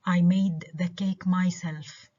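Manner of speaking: emphatic "myself" at the sentence's end; stress on myself. Shown as a demonstration. Teacher showing who made the cake, "myself" stressed. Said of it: "I stress myself".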